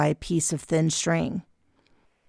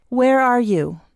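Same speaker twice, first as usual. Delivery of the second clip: questioning aunt; 7 semitones higher, 5 dB louder, slower than usual. A narrator's reading. Aunt tests narrator.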